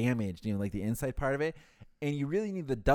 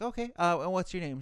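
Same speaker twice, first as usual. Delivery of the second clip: chipper phone rep; 6 semitones higher than usual. Retold or imitated. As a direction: pitch way up like an overly friendly support agent. Rep asking for caller's name.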